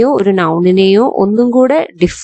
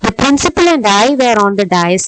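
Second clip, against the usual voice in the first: slow example read; much slower than usual. Shown as a demonstration. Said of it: "എന്നേ പറയൂ".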